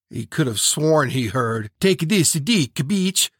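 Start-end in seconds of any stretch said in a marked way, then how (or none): 1.8-3.3 high feminine voice; Chaim. Acted. Imagined horse talking to the other, high feminine voice. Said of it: "in Chaim's feminine voice".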